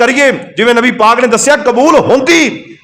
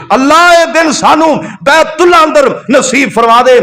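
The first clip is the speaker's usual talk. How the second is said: impassioned supplication; 2 semitones higher, slower than usual. Real, not acted. Preacher begging Allah for a pilgrimage to Mecca, impassioned plea. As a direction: cry out to God, drawing out His name. Calls out a prayer to God.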